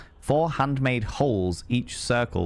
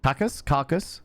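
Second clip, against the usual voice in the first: incredulous; 5 semitones higher than usual. Real, not acted. Repeating the pirate's threat, disbelieving.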